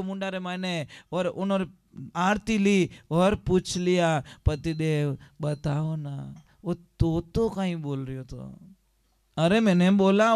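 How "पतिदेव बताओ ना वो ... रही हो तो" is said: coaxing wife. Acted. Wife coaxing husband again.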